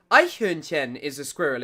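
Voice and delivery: sounds out Eichhörnchen in German; Eichhörnchen said as eye-hurn-chen, German ch; German word. Shown as a demonstration. Streamer testing the German word for squirrel, careful German. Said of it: "isn't it, in German?".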